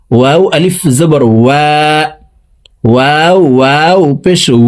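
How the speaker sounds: ওয়া said with both lips rounded and a small gap; rounded waw. Shown as a demonstration. Teacher showing how to round the lips for ওয়াও. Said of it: "দেখুন".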